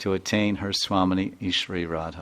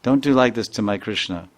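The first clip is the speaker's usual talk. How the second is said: protesting friend; 3 semitones higher, 4 dB louder than usual. Retold or imitated. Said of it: "she even says".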